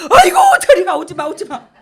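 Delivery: loud, high, hammed-up refusal; acted rejection. Wife refusing husband who cursed her earlier, loud mock rejection. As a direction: shove him away with the voice.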